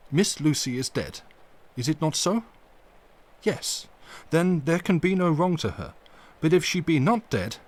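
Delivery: a lightly voiced elderly professor, careful and earnest; hint of an old professor pleading gently; Van Helsing. Van Helsing speaks, voiced by narrator.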